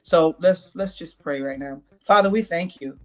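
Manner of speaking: earnest praying voice; prayer. Acted. Pastor praying out the show, earnest prayer. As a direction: pray over the listeners, steady and sincere.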